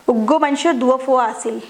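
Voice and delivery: a Chittagonian dialect sentence in a teacher's own voice; Chittagong dialect. Shown as a demonstration. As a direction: say it like a Chittagong local, lightly. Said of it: "তারা চট্টগ্রামের আঞ্চলিক ভাষায় কথা বলে".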